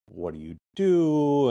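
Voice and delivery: calm, relaxed. Retold or imitated. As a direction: draw it out to calm someone down. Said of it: "I'm being relaxed talking to him".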